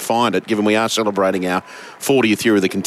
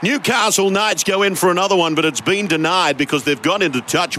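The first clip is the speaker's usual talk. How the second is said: lightly imitated race-along commentary; a hint of old-school footy commentator; Rabs; 4 semitones higher than usual. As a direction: slip into a veteran caller's voice. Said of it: "Why am I talking like Rabbi?".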